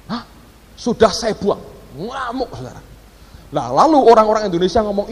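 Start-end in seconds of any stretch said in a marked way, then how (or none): 0.1-1.6 startled "huh?" then disbelieving repeat; imitated incredulous echo. Listener reacts to the discarded boarding pass, imitated incredulous echo. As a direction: echo it back as a shocked question.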